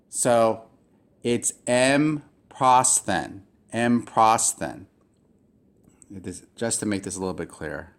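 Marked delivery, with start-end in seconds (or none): 1.6-4.9 slow EM, then PROSTHEN as its own piece; divided syllables. Shown as a demonstration. Teacher shows students where the word divides, slow split syllables. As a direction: say "M prosthen" slowly, split after the M. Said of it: "So this has to be divided".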